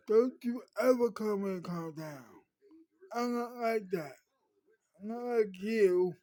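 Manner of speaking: loud, indignant shout-back; angry retort. Retold or imitated. Girl rejecting being told to calm down, angry loud retort. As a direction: hurl it back at him, offended.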